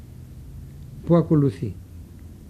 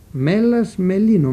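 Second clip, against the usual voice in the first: «Μέλας, μελίνο» louder and higher; emphatic; 4 semitones higher, 4 dB louder than usual. Shown as a demonstration. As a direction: announce the root loudly. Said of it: "από το επίθετο μέλας". (δυνατό, έντονο «Μέλας, μελίνο»)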